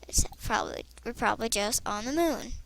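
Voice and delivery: hushed repeat; quiet murmured correction; whispered aside. Real, not acted. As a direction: drop to a whisper to yourself.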